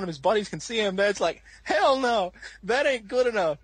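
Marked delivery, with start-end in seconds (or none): 1.6-3.6 high, emphatic scolding; hammed-up indignant command; mock stern dad. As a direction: imitate a dad ordering him out. Dad's scolding order, retold.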